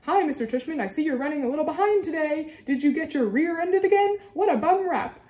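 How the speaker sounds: very high, loud mock old-lady voice; hammed-up high old lady; fake old lady. A narrator's reading. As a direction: tease in a pretend old lady's high pitch. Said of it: "using a fake high old lady voice".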